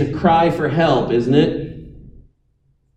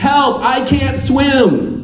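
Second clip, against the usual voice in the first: "help, I can't swim" higher and slow, each word pleading; desperate cry for help; 10 semitones higher, much slower than usual. Shown as a demonstration. Preacher contrasting a casual request with a real cry, desperate. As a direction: sound like you're actually drowning. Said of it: "There is a world of difference between".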